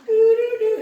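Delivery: very high, loud alien hooting; squeaky alien doo-doo call; alien noise. Retold or imitated. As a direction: hoot like a cartoon alien. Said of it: "and with the alien thing".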